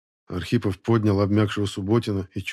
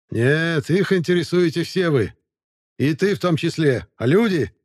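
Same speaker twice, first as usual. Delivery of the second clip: shrill, piping voice, much higher; high squeaky voice; 8 semitones higher, 4 dB louder than usual. Acted. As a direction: squeak it out like a eunuch. Sermet's voice again.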